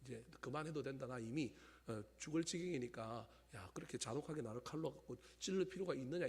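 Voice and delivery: low, subdued imitation of Gyeongsang speech; Gyeongsang dialect. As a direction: quote a dying friend in Gyeongsang dialect, quietly. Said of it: "경상도 말로".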